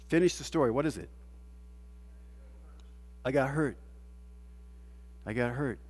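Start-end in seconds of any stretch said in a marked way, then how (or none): 3.3-5.8 soft, low imitation of a hurt person; quiet, low "I got hurt"; mock hurt quote. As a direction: say it softly, as someone who got hurt.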